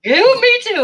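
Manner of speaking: high squeal of agreement; excited squeal. Real, not acted. Joining in excitedly.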